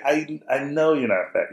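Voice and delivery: high, slow dad's reply; exasperated concession. Retold or imitated. Exasperated dad conceding to son.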